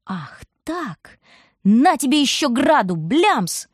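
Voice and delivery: sudden drop then high jeering blast; spiteful wind. A narrator's reading. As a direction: toss hail at her out of spite. Wind retaliates with hail.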